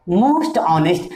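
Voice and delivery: "most honest" stretched out very slowly, word by word; slow repeat. Shown as a demonstration. Teacher to class, repeating "most honest" very slowly. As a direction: drag "most honest" out so students can write it. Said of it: "Kejriwal is one of the most honest".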